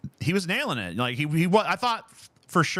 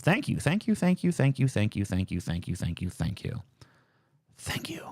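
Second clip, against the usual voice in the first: fading thanks; 4 semitones lower than usual. Pretend. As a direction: reel off thank-yous until they die away. Rapid repeated thanks to a donor.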